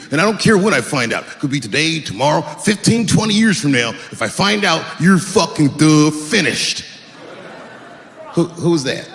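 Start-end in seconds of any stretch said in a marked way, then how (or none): 0.1-6.8 dopey threatening voice with duh fillers; mystery impression. Comic mimics the audience as a dim bully, lightly voiced. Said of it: "let me get into character".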